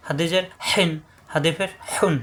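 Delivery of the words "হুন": হুন with a pressed, throaty H; throat pressure. Shown as a demonstration. Teacher shows tanween, হুন pressed from the throat. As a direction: squeeze mid-throat to start হুন. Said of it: "কণ্ঠনালীতে চাপ দিয়ে উচ্চারণ হবে".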